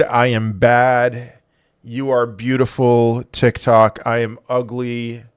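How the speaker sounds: mock grovelling apology to TikTok, slow and overdone; sarcastic apology. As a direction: grovel like you mean it, but you don't. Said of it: "I was being a little sarcastic".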